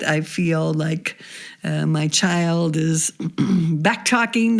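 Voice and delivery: hoarse, fading voice, slowing; losing her voice; voice giving out. Real, not acted. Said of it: "Excuse my voice here. ... I'm losing it a little bit".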